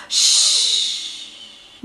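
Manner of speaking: sharp hiss of shh; hissing shush; hushing. Acted. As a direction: silence him fast. Snake hushes elephant.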